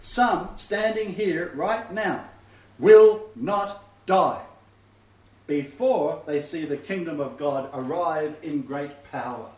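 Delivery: slow, weighty reading with every phrase stressed; preacher reading Yeshua's words, slow and emphatic; slow emphatic quote. Shown as a demonstration. Preacher quoting scripture slowly to the congregation. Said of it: "now that's plural".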